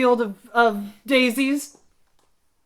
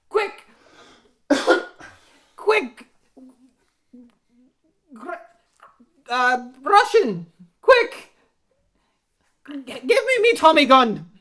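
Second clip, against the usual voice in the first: urgent shout; 2 semitones lower than usual. Acted. Urging partner as police arrive.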